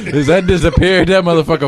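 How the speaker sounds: laughing while saying it; giggling through the words. Real, not acted. Repeats it laughing.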